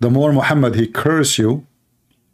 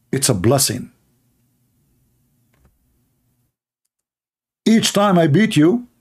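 higher-pitched sneering mock quote; 5 semitones higher than usual. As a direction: voice it high and mocking. Mock-quoting Muhammad's self-justification.

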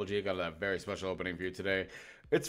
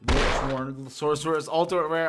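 excited; 6 semitones higher, 7 dB louder than usual. Real, not acted. Excited at rare pull.

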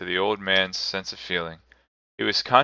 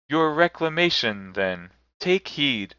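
lightly raised solemn spirit voice; a gentle ghost, slow and grave; 6 semitones higher than usual. A narrator's reading. Spirit answers Scrooge, lightly voiced ghost. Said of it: "for it said immediately".

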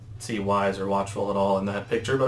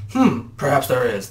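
slow, louder villain musing; snickering devil; 2 semitones higher, 5 dB louder than usual. Acted. Devil considers the brothers' plea, slow mild snicker. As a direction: draw it out with a touch of slyness. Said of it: "the devil snickered".

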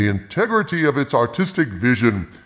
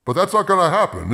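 laughing; 9 semitones higher, faster than usual. Real, not acted. Laughing break from mock elegy.

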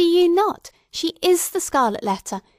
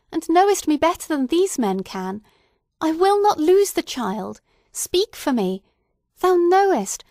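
high, loud, desperate plea; mother begs the young minister to speak for her, high and loud; wild appeal; 6 semitones higher, 3 dB louder than usual. A narrator's reading. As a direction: beg the pastor wildly, on the edge of madness. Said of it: "this wild and singular appeal".

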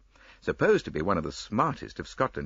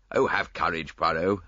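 cried out; 3 dB louder than usual. Acted. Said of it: "I cried".

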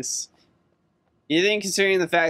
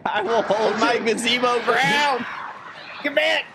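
patriotic speech; 9 semitones higher than usual. Pretend. Mock patriotic gazebo speech.

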